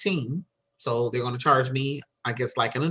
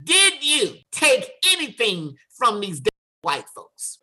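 high, slow, emphatic questioning; slow, pointed demand in a raised pitch; acted stern interrogation; 7 semitones higher than usual. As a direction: grill them word by word as a stern mother. Mother interrogating daughter in jail cell.

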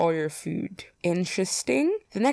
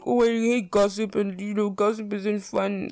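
lightly mimicked complaint, pitched up; mock disapproval; 3 semitones higher than usual. Imitating herself objecting to gossip, mock disapproving. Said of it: "I'm always like".

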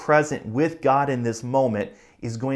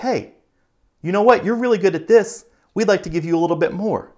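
higher and louder, eager praise, last line fast; church people praising; 6 semitones higher, 5 dB louder, faster than usual. Retold or imitated. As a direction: gush over the new volunteer and hand them more. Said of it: "And people are like".

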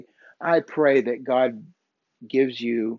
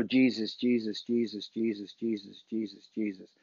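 each Jesus softer and lower, fading to almost nothing; repeated fading prayer; 3 semitones lower, 7 dB quieter than usual. Retold or imitated. Friend's advice on praying in despair, fading murmured chant. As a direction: let the name sink away into a hush. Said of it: "Sometimes you just have to sit there and go".

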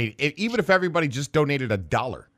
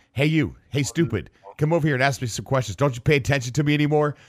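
lightly voiced creepy hologram; glitchy hologram; 2 semitones higher than usual. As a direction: taunt players as a hologram, fast. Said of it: "weird stuff in the hologram voice".

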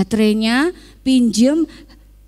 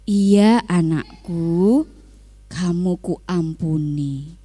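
gentle forgiveness; 4 semitones lower, slower than usual. Acted. Father forgiving son.

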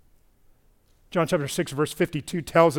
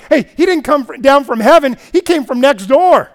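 louder, higher scoffing objection; mock grumbling; 6 semitones higher, 8 dB louder than usual. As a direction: object like a sceptical neighbour. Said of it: "why they were grumbling".

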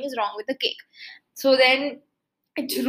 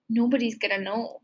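sneaky aside; 6 dB quieter than usual. Retold or imitated. Acting papa sneaking a bite of cake.

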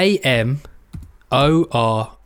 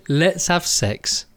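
slow, drawn out rhyme; mock sing-song; 3 semitones lower, much slower than usual. Reading his co-host's Tinder message back in slow sing-song. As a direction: stretch the words like a nursery rhyme. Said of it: "You said to Catherine".

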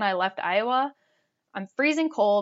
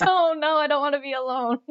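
retold panic; 5 semitones higher than usual. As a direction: act out panicking at being left alone. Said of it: "I started panicking again".

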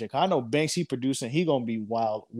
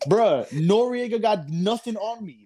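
excited boast; 8 semitones higher than usual. Real, not acted. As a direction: relish the outrage. Boasting about getting banned.

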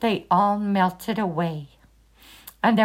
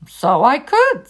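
slow, delighted, pitched up; delighted tiger; 3 semitones higher, 5 dB louder, slower than usual. Acted. Tiger delighted by the shoe idea, slow and pleased. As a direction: savour the clever idea.

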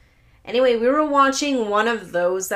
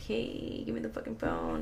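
stern demand; 2 semitones higher, 12 dB quieter than usual. Retold or imitated. Mother demanding phone back.

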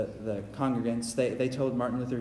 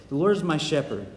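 slow recitation; slower than usual. Shown as a demonstration. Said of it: "Read it with me".

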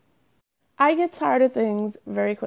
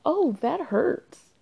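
mild pain; 5 semitones higher, much slower than usual. Retold or imitated. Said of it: "feel pain and they say".

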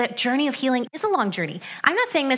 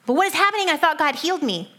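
mock panic; 6 semitones higher than usual. Imitating panicked self after setback.

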